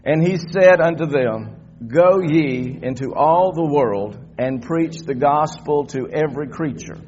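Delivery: slow, emphatic Bible reading; congregational scripture reading. Real, not acted. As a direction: read it out slowly for all to follow.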